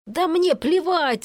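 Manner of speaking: restrained narrator's yell. A narrator's reading. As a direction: cry it out slowly in anger, without full volume. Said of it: "заорал Есеня".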